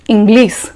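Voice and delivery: "English" with a plain s at the end, "Inglees"; English said as "Inglis"; regional mispronunciation. Shown as a demonstration. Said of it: "speakers from some part of our country say".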